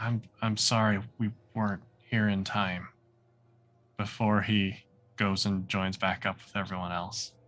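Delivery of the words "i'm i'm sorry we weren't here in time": breathy, hushed half-whisper, voiceless. Voicing a character speaking to the bodies on a table: half-whispering. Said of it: "he just kind of whispers to them".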